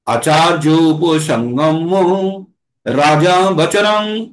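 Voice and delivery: slow chanted Sanskrit verse; slow recitation. Shown as a demonstration. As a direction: read the verse aloud slowly, word by word. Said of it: "এখানে আমি আবার পঠন করছি".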